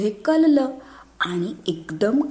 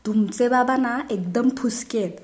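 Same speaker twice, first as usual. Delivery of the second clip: put-on lightly raised child voice, bragging; boastful child; 4 semitones higher than usual. Schoolboy boasting to friends, lightly higher bragging voice. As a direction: brag like a schoolboy about his dad.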